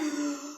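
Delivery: big inhale, then feeble puffs; spent dragon breath. Acted. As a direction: breathe in big, manage only little puffs. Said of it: "he blew out a little puff of air".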